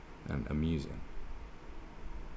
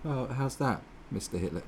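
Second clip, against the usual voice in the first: a lightly higher, keen scheming voice; mock crony pitching a plan to Hitler, slightly higher; mock eager politician; 7 semitones higher than usual. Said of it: "to be in power and go like".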